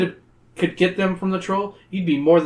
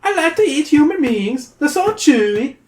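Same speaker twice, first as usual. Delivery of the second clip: sly troll; 10 semitones higher, 4 dB louder than usual. Acted. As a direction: tempt them like a greedy little troll.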